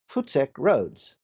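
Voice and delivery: "Futsek" said the Afrikaans way, FOOT-sek; Afrikaans word. Shown as a demonstration. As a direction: Futsek with a short u and a crisp t-s. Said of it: "You know what that means".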